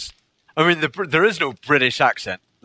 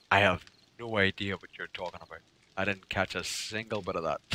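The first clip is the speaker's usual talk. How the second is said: baffled listener; 8 semitones lower, 12 dB quieter than usual. Retold or imitated. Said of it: "someone will say to them".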